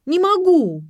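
very high, loud cry of not being able; a girl cries out at the caller, desperate. A narrator's reading. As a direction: burst out, pushed past her limit. Ksenia breaks under pressure.

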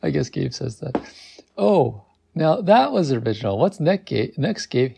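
high, teasing aside to the listener, laughing at Gabe; amused reader heckling the hero; mocking aside. Real, not acted. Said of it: "Does anybody say that".

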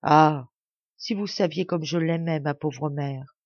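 understated grief at the end; sighing in tears. Acted. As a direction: soupir ému, léger. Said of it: "les larmes commencent à couler".

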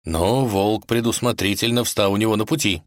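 plain reading voice

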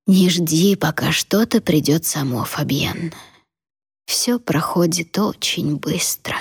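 put-on slow, dying away old woman; last words, fading out; frail fading old voice. Grandmother's fading final words.

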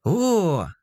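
high delighted cry; bright happy gasp of news; joyful exclamation. A narrator's reading. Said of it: "радостно воскликнула Машка".

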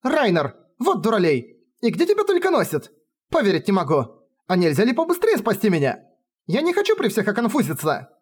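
put-on high, scolding exclamation of a young woman; young woman's high indignant outcry; exclaiming heroine. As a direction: scold him in a high, flustered voice. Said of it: "она воскликнула".

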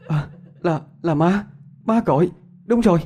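high, rising relieved voice; relieved realization. Acted. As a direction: realize it's mom calling. Girl realizes mom calls.

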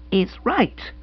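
choked whisper; a breathless, throttled whisper of fury; strangled whisper. A narrator's reading. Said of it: "speaking in a strange, strangled voice".

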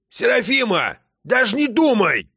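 put-on high, stern old man; warning grandpa. A narrator's reading. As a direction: warn her off firmly.

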